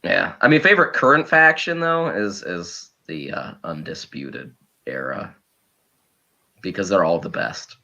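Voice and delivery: low, deep impression of Mark; channeling Mark. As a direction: keep the voice low and heavy like Mark. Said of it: "channeling my inner Mark".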